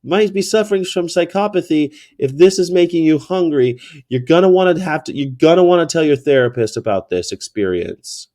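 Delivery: high-pitched, smiling needling of a stranger; 带笑回敬. Retold or imitated. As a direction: say it through a smile, politely insulting. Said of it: "And I smile".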